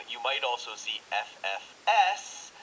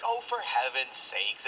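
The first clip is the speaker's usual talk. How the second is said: mild exasperation; slower than usual. Shown as a demonstration. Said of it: "a little silly or dramatic".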